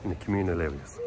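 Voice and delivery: muffled through a face mask. Real, not acted. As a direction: talk through a mask over your mouth. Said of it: "if I sound muffled, it's 'cause I got the mask on".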